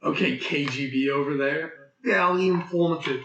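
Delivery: put-on a jokey, overdone Russian accent; bad Russian accent. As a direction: play a cartoon KGB agent in a badly faked Russian accent. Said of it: "that was a bad accent".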